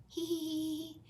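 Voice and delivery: put-on high giggly children's laugh; tittering kids; giggling. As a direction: giggle like excited piglets.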